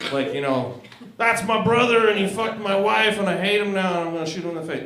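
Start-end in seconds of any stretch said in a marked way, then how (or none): 1.2-4.8 angry rant. Pretend. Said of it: "Not like that".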